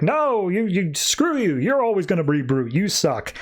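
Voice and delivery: high opening, mock outrage; petulant outburst. Pope curses the departing Brute, petulant. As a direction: lash out like a sore loser, lightly acted.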